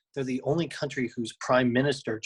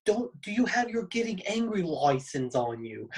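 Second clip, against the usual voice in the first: unvoiced Australian-accent whisper; hushed fake Australian accent; whispered mock Aussie; 6 semitones higher than usual. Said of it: "That was Australian, bro".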